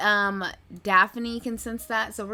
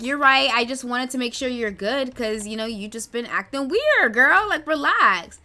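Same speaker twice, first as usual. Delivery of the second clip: sassy friend; 3 semitones higher, 6 dB louder than usual. Acted. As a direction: reassure her like a bestie, rising on girl. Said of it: "And Daphne's like".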